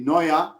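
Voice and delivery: Neuer said the German way, NOY-a; German pronunciation. Shown as a demonstration. Narrator shows critics his German Neuer, German pronunciation. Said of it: "de por qué pronuncias".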